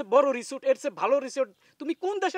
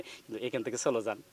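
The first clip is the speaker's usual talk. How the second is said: whisper; 13 semitones lower, 8 dB quieter than usual. Acted. Husband secretly urging to leave.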